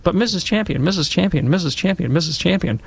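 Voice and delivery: put-on a kid waving his hand, insisting on being heard; eager child interrupting. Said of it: "throw my hand up and I said".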